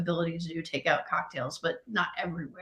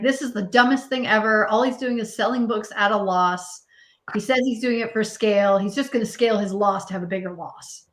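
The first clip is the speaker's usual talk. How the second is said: mock rant; 4 dB louder than usual. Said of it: "he just lambasted Jeff Bezos".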